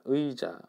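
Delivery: 의자 with 의 as a full diphthong; full 의 sound. Shown as a demonstration. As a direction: say 의자 carefully, gliding eu to ee. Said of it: "이렇게 발음을 했고요".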